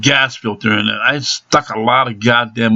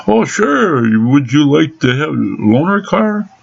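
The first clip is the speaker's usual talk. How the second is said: much higher, put-on helpful salesman voice; mock garage clerk; 5 semitones higher than usual. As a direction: parody the clerk padding the bill. Mocking the garage staff's upsell.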